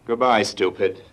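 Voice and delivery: ordinary talk, nothing marked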